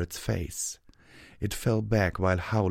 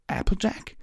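breathless, high, shaky mumble; 12 semitones higher than usual. A narrator's reading. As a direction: whisper it in disbelief. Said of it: "Rainbow mumbled".

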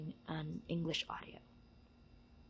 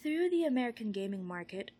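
reading aloud; 3 semitones higher, 6 dB louder than usual. Acted. Reads a book passage aloud.

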